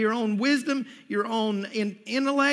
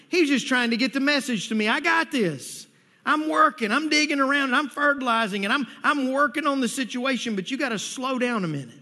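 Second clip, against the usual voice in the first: raised, higher preacher's delivery; emphatic preaching; 5 semitones higher, 3 dB louder than usual. Acted. Preacher voicing God's answer to an impatient man, emphatic preaching. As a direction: drive it home in rising preacher's voice.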